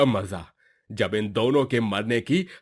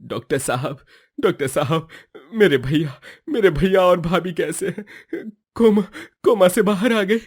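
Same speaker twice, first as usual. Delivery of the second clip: worried plea building higher and louder; anxious pleading; 5 semitones higher, 3 dB louder than usual. Acted. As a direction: press the doctor, rising in worry. Anxious brother asks doctor. (घबराहट में बढ़ती हुई विनती)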